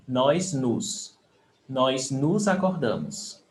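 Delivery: "Nós" with open o, "nos" closed; pronunciation demo. Shown as a demonstration. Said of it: "Pay attention to the pronunciation on nós".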